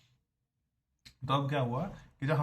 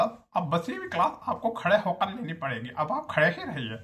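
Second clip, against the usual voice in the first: put-on HOD's accent order; 4 semitones higher than usual. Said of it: "literally यही accent था".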